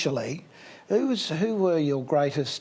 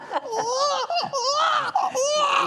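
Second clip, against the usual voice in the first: big burst of laughter. Real, not acted. Host laughs at ventriloquism.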